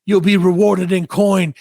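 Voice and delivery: lightly voiced olde-timey herald, slow; mock fair herald voice. Fair worker hamming a royal quest to a kid, mildly. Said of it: "he did do the vo".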